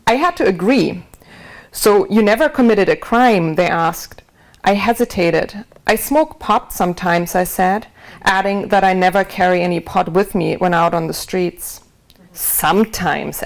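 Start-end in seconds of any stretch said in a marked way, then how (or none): 0.1-5.6 steady, measured reading aloud to an audience; book reading. A narrator's reading. Author reads her book aloud. 7.4-11.8 steady, measured reading aloud to an audience; book reading. A narrator's reading. Author reads her book aloud. 12.3-13.4 slow, drawn-out mocking "Sometimes"; mocking echo. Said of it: "Adam mocked".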